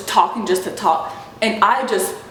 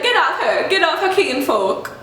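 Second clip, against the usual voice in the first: higher, badly faked Jamaican accent; fake Jamaican accent; 5 semitones higher than usual. Cashier telling Kinfolk to back off, fake Jamaican accent. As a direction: mimic a phony Jamaican order. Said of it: "That's what she sounded like".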